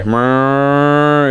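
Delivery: drawn-out siren wail made by voice; imitated distant siren. Tea alarm heard from the zip line, imitated siren wail. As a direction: mimic an alarm sounding far away. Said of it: "in the distance, you see".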